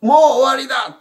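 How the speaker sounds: mild mock lament of a forsaken man; voicing despair. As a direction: let a touch of hopeless despair lift the voice. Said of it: "絶望の心に落ちた".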